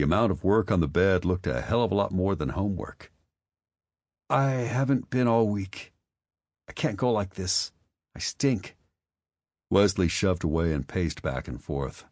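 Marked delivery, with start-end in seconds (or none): 4.3-8.8 put-on teen boy voice. Wesley's high boy voice.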